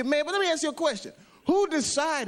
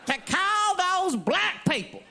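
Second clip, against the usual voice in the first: higher-pitched pompous chairman voice; meeting chairman; 5 semitones higher than usual. Retold or imitated. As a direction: address the assembly formally. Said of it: "big meeting back in the sixteen hundreds".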